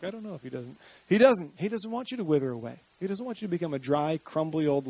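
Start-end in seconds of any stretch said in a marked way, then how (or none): 0.0-0.8 very soft imitation of a doubter; mock doubter. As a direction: voice a doubter under your breath. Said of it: "Some of you are like".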